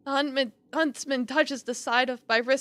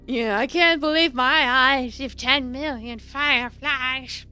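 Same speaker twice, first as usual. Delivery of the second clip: slow, crying through the words; tearful; slower than usual. Real, not acted. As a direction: choke up reading it. Reading line tearfully.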